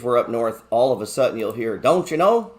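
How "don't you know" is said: high, loud Upper Midwest "Don't you know?"; mock northern Wisconsin lilt, sung up high; Wisconsin accent. Wife slipping into her up-north accent, mock Wisconsin accent. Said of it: "Total accent change".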